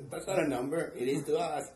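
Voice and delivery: hammed-up Asian accent, smug; mock Asian accent, playful; Asian accent impression. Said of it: "I love your impersonation".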